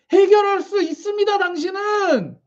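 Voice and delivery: preacher's lifted proclamation, slowing on the last word; proclaiming. Pretend. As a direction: declare it like a promise from above. Voicing God's promise.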